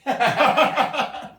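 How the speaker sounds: high, bouncing belly laugh; real laugh. Real, not acted. Pastor amused by a child's quiz answer, laughing. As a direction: burst out in a run of ha-ha-has.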